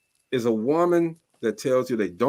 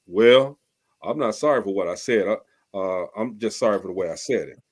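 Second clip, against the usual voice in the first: imitated excuse; 7 semitones lower than usual. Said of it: "I say".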